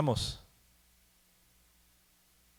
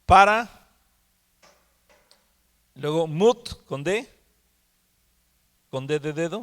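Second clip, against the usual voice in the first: loud, raised dictation of one piece; dictating to class; 2 semitones higher, 4 dB louder than usual. Shown as a demonstration. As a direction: project the first chunk for note-takers.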